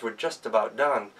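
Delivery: usual speaking voice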